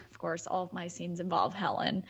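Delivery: quick whispered aside. Real, not acted. Whispered aside to the co-hosts, then a whisper.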